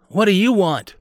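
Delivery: put-on high, loud, put-out kid; unwelcoming older brother. A narrator's reading. Bobby to the sister interrupting his game, annoyed. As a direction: challenge a pesky little sister loudly.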